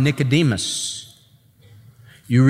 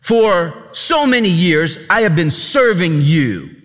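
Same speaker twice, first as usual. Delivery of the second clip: contemptuous son; 3 semitones higher than usual. Acted. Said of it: "This guy just says".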